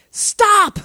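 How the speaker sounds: sharp high loud command; intense shout. Acted. Samuel halting Saul, a high loud shout. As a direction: stop him dead with one word. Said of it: "That had to be intense".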